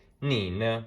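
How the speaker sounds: "你呢" stretched out, ni falling-rising then a light ne; slow Mandarin demo. Shown as a demonstration. Teacher asking the question back for students, slowly. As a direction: model "你呢" slowly and clearly. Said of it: "I would just say".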